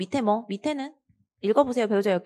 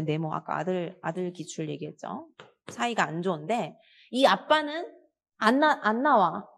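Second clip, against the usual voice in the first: usual speaking voice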